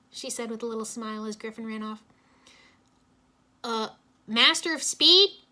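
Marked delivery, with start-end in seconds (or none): 3.6-5.4 scoffing. A narrator's reading. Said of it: "Jay scoffed".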